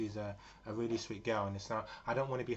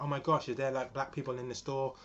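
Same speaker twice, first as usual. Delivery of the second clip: panicked; 4 semitones higher, 5 dB louder than usual. Retold or imitated. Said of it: "they start to panic".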